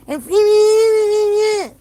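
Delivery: high, squealing laugh over the words; laughing in disbelief. Real, not acted. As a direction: crack up at the very idea. Bursts out laughing at the idea.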